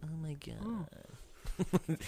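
breathy whispered gasp. Real, not acted. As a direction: whisper it under your breath. Reacting in a whisper.

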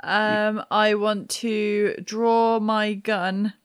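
usual speaking voice

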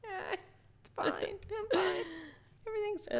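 high whispered everything's fine; whispering fake calm. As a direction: whisper it like it's all okay.

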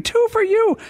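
high shouted call; retold scream. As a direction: yell it out like a PA call. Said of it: "He's screaming".

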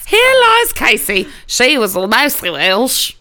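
hammed-up Southern graveside proclamation; Southern accent. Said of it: "in a southern accent just like that".

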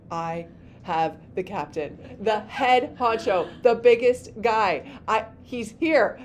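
imagine her freaking out, punching each phrase; acted freaking out. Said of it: "like, freaking out".

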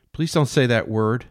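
a mad woman serving the captain breakfast; Jane. Acted. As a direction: play her as doting and unhinged. Jane voiced as a character.

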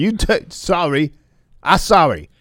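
put-on broken-English Chinese accent, lightly done; a hint of a mock Chinese accent. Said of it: "inappropriate Chinese accent".

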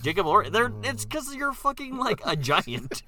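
high, loud incredulous retort; mock exasperation. Comic retort to the seven-foot actor, mock exasperated.

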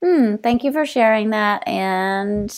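calm polite. Retold or imitated. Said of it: "I wish I had just been like".

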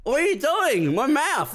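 mock patient at the dentist; garbled patient. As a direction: squeal through a prodded mouth. Patient at dentist, mouth prodded.

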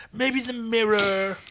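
breathy slow whisper. Acted. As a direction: whisper it to yourself, slowly. Whispered aside as Rigel.

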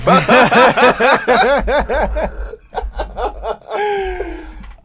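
high, loud, helpless laughing fit; long hearty laugh. Real, not acted. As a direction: crack up at length. Cracks up at own joke.

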